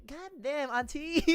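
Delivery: high-pitched retold teasing exclamation; playful high-pitched disbelief; mock amazement. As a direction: exclaim it, teasing, on the edge of laughter. Retold teasing reaction to auntie's accent.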